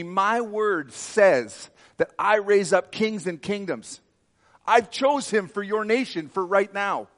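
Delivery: loud, high, slow divine pronouncement; voice of the Lord. Retold or imitated. The Lord telling the preacher he chose the nation's leader, loud and high. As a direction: proclaim it as God, slow and booming at first. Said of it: "The Lord says to me".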